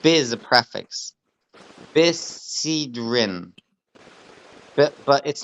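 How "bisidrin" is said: Bisidrin pulled apart very slowly into bi, si, drin; drawn-out sounding out. Shown as a demonstration. Teacher breaking down an Aramaic word for a student, Bisidrin slowly sounded out. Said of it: "it's bisidrin".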